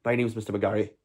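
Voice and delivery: lightly put-on Stranraer accent. Streamer imitates his old teacher for viewers, Stranraer accent. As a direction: do a teacher from Stranraer, between Scottish and Northern Irish. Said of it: "That was a Stranraer accent".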